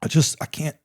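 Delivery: stammered through chattering teeth, halting; imitated teeth chattering. Soldier freezing in the rain, answering his sergeant, stammering with chattering teeth. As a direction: stutter it out like you're freezing. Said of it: "teeth chattering".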